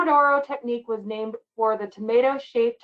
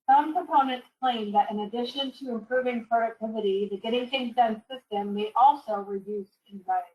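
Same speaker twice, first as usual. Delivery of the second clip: muffled underwater audio; bad muffled connection. Real, not acted. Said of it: "It kinda sounds like you're underwater".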